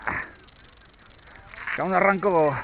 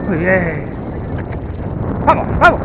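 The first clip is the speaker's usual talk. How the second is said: squeaky praising a dog; 7 semitones higher than usual. Real, not acted. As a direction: cheer the dog on, high and bright. Cheering on a running dog.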